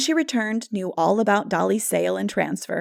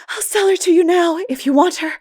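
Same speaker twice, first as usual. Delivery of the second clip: put-on higher and louder, a flustered, huffy girl; flushed girl; 10 semitones higher, 8 dB louder than usual. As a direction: snap back at the teasing farmer. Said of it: "said her flushed and disheveled owner".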